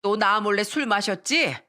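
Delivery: lightly hammed-up scolding wife; mock-yell an accusation at a husband; understated angry outburst; accusing shout. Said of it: "시부한테 소리쳤습니다".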